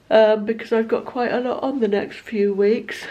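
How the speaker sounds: yawning through the words; talking mid-yawn. Real, not acted. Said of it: "I don't know why I'm yawning".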